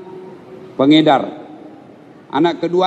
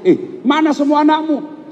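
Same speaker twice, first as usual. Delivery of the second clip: higher, slow startled asking; surprised question; 10 semitones higher than usual. Retold or imitated. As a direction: ask in disbelief where the children are. Ustaz asks surprised. (bertanya heran)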